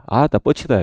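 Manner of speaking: lightly voiced Jeolla dialect; a hint of Jeolla accent. Shown as a demonstration. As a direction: give a quick Jeolla-dialect sample. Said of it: "전라도 버전을 하면".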